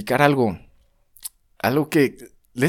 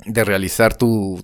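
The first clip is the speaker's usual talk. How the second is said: laughing. Real, not acted. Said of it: "perdón, eructé".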